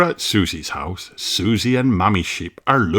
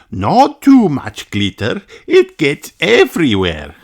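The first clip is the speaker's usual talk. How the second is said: lightly higher teacher voice; teacher Madame Gazelle; 7 semitones higher, 4 dB louder than usual. Acted. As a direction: warn the class gently. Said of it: "says Madame Gazelle".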